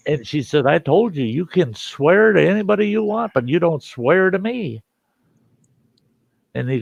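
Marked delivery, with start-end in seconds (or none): 0.6-4.8 high-pitched mama's telling-off; mock scolding mother, voice raised high; imitated scolding. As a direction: lay down the law as Ma. Mother scolds son in story.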